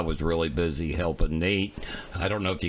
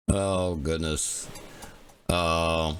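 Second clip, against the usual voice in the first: slightly hoarse after a cough; much slower than usual. Real, not acted. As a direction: talk a little hoarse and worn. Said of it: "my voice is still probably a little hoarse".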